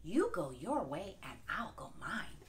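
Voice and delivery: sly wolf plotting. Acted. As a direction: lure her into a race. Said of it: "said the wolf".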